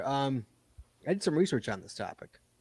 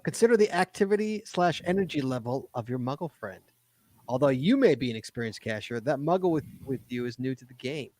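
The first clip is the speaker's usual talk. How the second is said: brisk read-aloud voice. Acted. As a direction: read it like an article. Reads article aloud.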